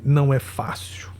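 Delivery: whispered, voice failing; emotional whisper. Real, not acted. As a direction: breathe it out, barely there. Host overcome, voice drops. (sussurrado, com a voz embargada)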